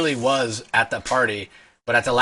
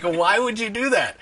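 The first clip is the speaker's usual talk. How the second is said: mock annoyed question, higher and slow; imitating an annoyed guard; 11 semitones higher than usual. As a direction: play the irritated bouncer, mildly hammed-up. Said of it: "he was pissed".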